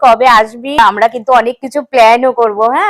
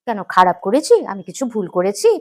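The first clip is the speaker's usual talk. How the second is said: hurt innocence; 6 semitones lower, 7 dB quieter than usual. Acted. Bride feigning hurt innocence.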